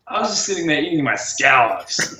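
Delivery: put-on a light American accent on scallops; the stranger's American accent. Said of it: "the way he said scallops".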